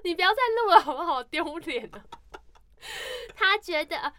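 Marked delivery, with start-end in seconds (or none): 3.4-4.1 slow, formal recital voice; recitation contest reading. Shown as a demonstration. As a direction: recite it slowly for the judges. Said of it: "朗读比赛".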